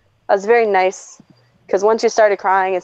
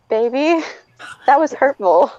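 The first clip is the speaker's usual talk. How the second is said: lightly imitating a gentle objector, pitched higher; mock hurt, mild and higher; non-confrontational partner; 4 semitones higher than usual. Non-confrontational partner chiding the bull in a china shop, mildly. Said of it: "He is the least confrontational person".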